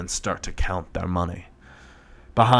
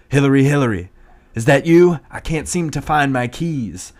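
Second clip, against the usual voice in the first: higher, louder bewildered calling; confused old man; 7 semitones higher, 7 dB louder than usual. Acted. Demented old man calling for his wife, confused high calling. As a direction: call out lost and confused. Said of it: "says Bill Clinton".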